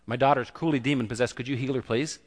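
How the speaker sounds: offhand, polite by-the-way ask; imitating a too-casual plea; mock casual request. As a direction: toss it out like a minor favor. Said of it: "she just didn't come and say".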